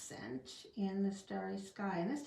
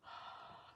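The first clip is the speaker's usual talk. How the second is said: huff of breath; 14 dB quieter than usual. Shown as a demonstration. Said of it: "I'm gonna huff on this one".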